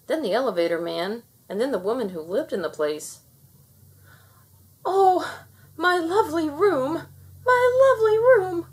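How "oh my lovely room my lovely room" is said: high, loud frantic wail; panicked frantic pleading. A narrator's reading. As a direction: cry it out in distress. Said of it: "cried the woman".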